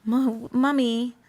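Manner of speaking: a child imitating an English accent, lightly done; sweet little kid putting on an English accent; lightly voiced child with a mock English accent. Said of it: "my kids, you know, telling me".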